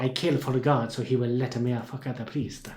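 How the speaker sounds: put-on hammy broken-English Italian accent; voicing Tredoni in a cheeky Italian accent; mock Italian accent. Host voices Tredoni's motive, in a mock Italian accent. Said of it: "that accent you're doing".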